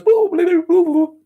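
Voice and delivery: high beeping boops; high mock console beeps. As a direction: imitate a machine going boo boo. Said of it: "It goes".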